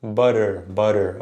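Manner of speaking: "Butter" with T as a light, quick tap; swift, subtle R. Shown as a demonstration. Teacher models the subtle R, quick tapped T. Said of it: "swift, uh, or subtle R".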